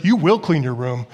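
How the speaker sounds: stern mom order. Retold or imitated. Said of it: "but when she says".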